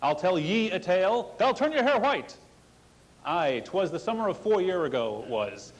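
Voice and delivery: a hint of an old sea salt; gruff old fisherman. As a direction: spin it like an old sailor's yarn. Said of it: "like some old salt telling a seafaring tale".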